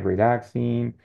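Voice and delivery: each word stretched slowly for the class; slow teacher listing. Shown as a demonstration. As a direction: drag out stressing, difficult, difficult, stressing. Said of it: "slow model vocabulary list".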